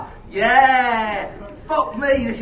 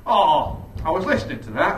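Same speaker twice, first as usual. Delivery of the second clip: a lightly voiced friendly dad, calm and clear; nice and clear; 6 semitones lower than usual. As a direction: say it pleasantly, no edge at all. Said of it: "really nice and clearly".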